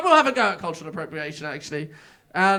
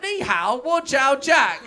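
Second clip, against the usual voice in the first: put-on flat English accent in Chinese; slower than usual. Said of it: "in my normal accent".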